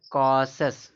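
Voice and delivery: कॉसस with a long open aw in the first syllable, loudly; model pronunciation. Shown as a demonstration. Teacher showing students how कॉसस is read, model pronunciation. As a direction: demonstrate कॉसस firmly, drawn-out open first vowel. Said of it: "इसको क्या पढ़ा जाए?".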